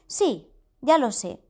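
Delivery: threatening queen. Acted. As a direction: menace him into obeying. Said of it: "le amenazó la reina".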